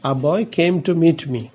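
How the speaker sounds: very slow, word by word dictation; slow example read. Shown as a demonstration. Teacher reading an example to students, very slow. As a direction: spell the sentence out slowly for the class. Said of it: "একটু উদাহরণে চলে যাই".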